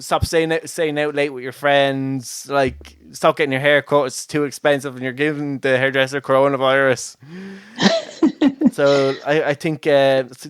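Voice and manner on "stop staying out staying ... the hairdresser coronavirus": nagging parent. Retold or imitated. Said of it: "sound like, um, their parents".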